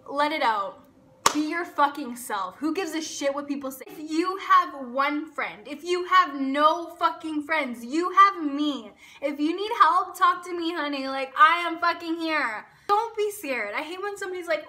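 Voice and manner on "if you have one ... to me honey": reassuring. Real, not acted. Comforting lonely viewers.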